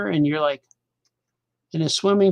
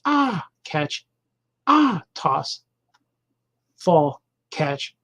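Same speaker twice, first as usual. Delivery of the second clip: reading comic lines; much slower than usual. Shown as a demonstration. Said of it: "gonna read this to you now".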